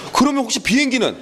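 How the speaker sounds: high, questioning mock-pupil voice; nervous student. Student presses the teacher further, lightly mimicked nervous pupil. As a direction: lightly imitate a student raising a doubt. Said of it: "애들이 근데 막 긴장해".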